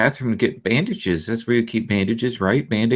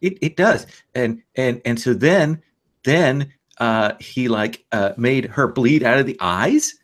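put-on rambling excited child. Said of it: "I'm gonna tell her about my day".

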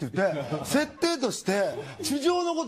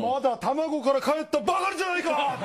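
teasing turtle; 5 semitones higher than usual. Acted. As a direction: poke fun at a grown man. Turtle teases.

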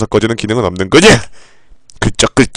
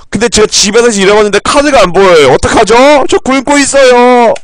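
whiny pleading; 9 semitones higher, 3 dB louder than usual. Pretend. Streamer to chat, playing the hungry card loser in a high whine. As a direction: beg like a helpless kid who lost his card.

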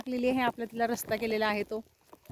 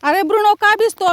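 loud, much higher call across the yard; calling out to dog; 11 semitones higher, 14 dB louder than usual. Real, not acted. Owner shouting to her dog Bruno in the rain, loud high call. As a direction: call Bruno sharply, why's he getting wet.

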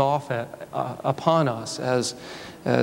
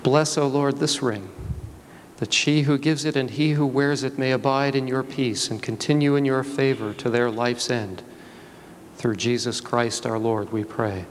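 prayer. Acted. Officiant prays again.

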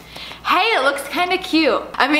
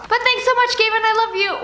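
sarcastic; 9 semitones higher than usual. Acted. Sarcastic thanks.

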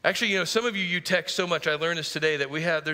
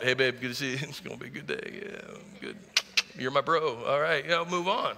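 casual brief greeting; 2 semitones lower than usual. Retold or imitated. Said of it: "fist bump, brief greeting".

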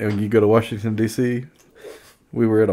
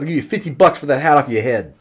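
bragging hick voice; 4 semitones higher, 4 dB louder than usual. Retold or imitated. Buyer voice continued.

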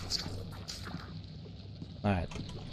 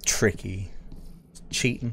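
whispered; 5 semitones lower, 5 dB quieter than usual. Real, not acted. Muttered aside.

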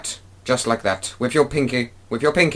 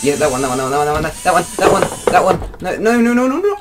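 climbing, louder and higher chant; pleading with the game to land it; real excitement building; excited urging; 7 semitones higher, 8 dB louder, much faster than usual. Real, not acted. Steering hand to target.

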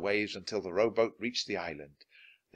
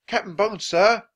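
higher, called out loud; boy shouting up to the pirate captain; 11 semitones higher, 8 dB louder than usual. A narrator's reading. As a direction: call out to the captain across the deck. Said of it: "he shouted".

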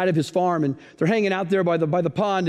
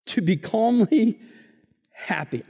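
calm and savoring; slower than usual. Shown as a demonstration.

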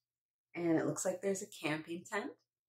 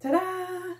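ta-da reveal; 11 semitones higher, 6 dB louder than usual. Acted. Revealing the next book.

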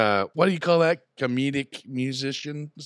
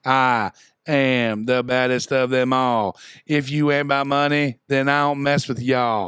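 quoting Moneymaker Mike. Retold or imitated. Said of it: "Moneymaker Mike".

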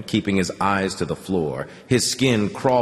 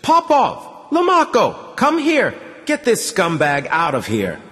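much higher and louder, calling his men; guard summoning his men, enraged shout; furious yelling; 10 semitones higher, 4 dB louder than usual. A narrator's reading. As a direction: bellow for the guards in a fury. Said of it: "The invisible border guard flew into a rage".

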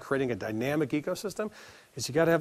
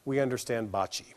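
softer, composed explanation of "bachi"; soft calm reply; 6 dB quieter than usual. Retold or imitated. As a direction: say "bachi" gently and sure. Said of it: "the softer she talks".

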